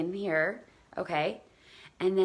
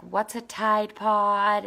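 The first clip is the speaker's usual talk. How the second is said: put-on kid asking; 4 semitones higher, 5 dB louder, much slower than usual. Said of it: "the kid who had told me about his brother is like".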